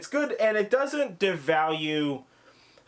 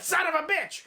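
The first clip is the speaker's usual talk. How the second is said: mock startled curse; 12 semitones higher than usual. Cameraman's startled curse, retold.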